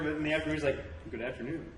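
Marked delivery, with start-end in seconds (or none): 1.1-1.6 softer, lower mock northerner accent. Imitating southern cousin turned afternoon northerner, northerner accent. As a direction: drop the southern act for a reserved northerner accent. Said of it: "a northerner".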